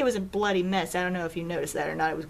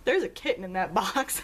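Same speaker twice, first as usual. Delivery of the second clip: deadpan. Retold or imitated. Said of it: "fiance just kinda deadpan is like".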